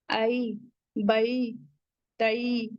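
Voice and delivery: आई बई तई with a clear ai glide, not flat ऐ; correct leen ai. Shown as a demonstration. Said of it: "तो हमें औ ऐसे कहना है, आई". (मारूफ तरीके से आई)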